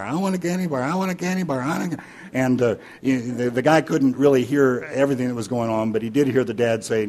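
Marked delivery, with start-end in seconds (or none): 0.0-2.0 put-on high, repetitive child's pleading; nagging three-year-old. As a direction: pester like a small kid wanting sweets. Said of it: "asking over and over and over".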